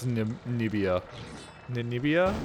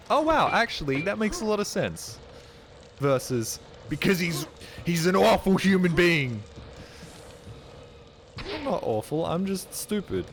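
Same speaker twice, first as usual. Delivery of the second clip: mock dialogue; 7 semitones higher than usual. Imagined argument between chat voices.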